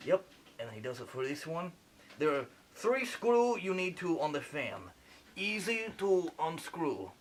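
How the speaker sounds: lightly put-on French accent playing a surgeon; a French surgeon narrating the operation, a hint of French accent; fake French accent. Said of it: "Sorry for the accent".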